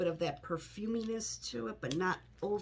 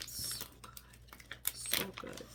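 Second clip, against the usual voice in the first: softer hushed whisper of pleasure; whispered delight; 12 dB quieter, much slower than usual. Real, not acted. Smelling her favourite wax melt, whispered delight. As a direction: breathe it out as if savouring the scent.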